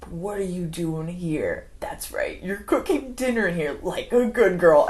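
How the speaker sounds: lightly acted patronizing menace; creepy condescension. Acting out creepy, condescending husband figure.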